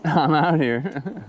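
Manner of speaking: slow, high laughing call. Real, not acted. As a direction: draw it out, high and loud. Calls out to bears, laughing.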